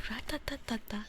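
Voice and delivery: tiny whispered ratatata gunfire; machine gun. Shown as a demonstration. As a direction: mouth a little machine gun burst. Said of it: "you were hoping to hear me do a minigun impression".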